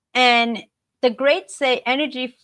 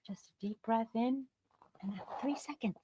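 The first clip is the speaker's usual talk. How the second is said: breathy whispered calm; 13 dB quieter than usual. Shown as a demonstration. Showing how to pause before reacting, whispered. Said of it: "taking that three seconds".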